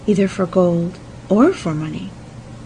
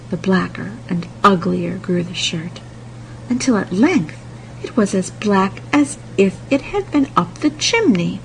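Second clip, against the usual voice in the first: plain reading voice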